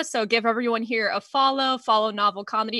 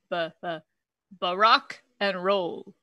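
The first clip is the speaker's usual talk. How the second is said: Obama; 4 semitones lower, 3 dB quieter than usual. Acted. Comic delivering a joke punchline, buffering presidential impression. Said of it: "that's him buffering".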